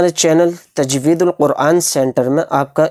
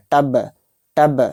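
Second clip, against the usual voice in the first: a light, clipped imitation of a ball hitting a wall; ball bounce sound; slower than usual. Shown as a demonstration. Teacher imitates a ball hitting the wall, light tap sound. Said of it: "کس طرح کی آواز نکلتی ہے؟".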